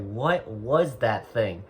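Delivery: slow, drugged-out mumble after the pill; dazed and drowsy. Retold or imitated. To himself after the chill pill, slow dazed voice. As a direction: let the words drift out, half sedated.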